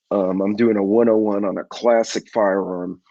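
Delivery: ordinary delivery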